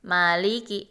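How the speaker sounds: "Maliki" said smoothly with long "Ma" and "li"; not jerked. Shown as a demonstration. Teacher repeats the corrected reading, "Maliki" smooth and even. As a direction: flow through "Maliki" without a jolt. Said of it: "Tidak disentak".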